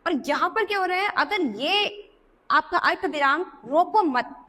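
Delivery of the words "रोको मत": "रोको मत" slowly as one unit, stopping after "मत"; pause after मत. Shown as a demonstration. Teacher showing where the comma moves, slow pause after "मत". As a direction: join "मत" to "रोको", then break. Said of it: "मत के बाद अगर ये अर्थ विराम लगा दिया".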